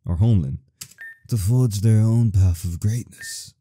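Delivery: a hint of a kindly old narrator; old man voice. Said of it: "am I getting this old man".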